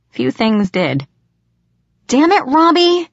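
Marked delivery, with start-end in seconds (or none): 2.1-3.1 furious high shout at a prankster; raging. A narrator's reading. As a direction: yell it, fully startled and furious. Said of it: "I raged".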